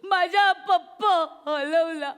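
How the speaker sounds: put-on whiny child. Child whining slowly.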